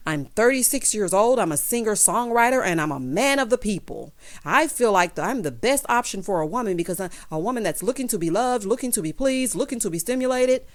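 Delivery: lightly voiced stump-speech candidate; mock a politician pitching himself to voters; campaign-trail politician. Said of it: "sounding like he is on the campaign trail".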